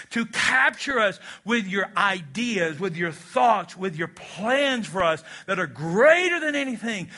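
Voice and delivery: earnest pastoral prayer, slowing in places; closing prayer. Acted. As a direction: lead the church in a heartfelt prayer.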